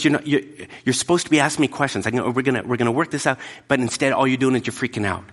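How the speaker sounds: a teacher urging the frightened disciples to ask questions; exasperated Jesus. Retold or imitated.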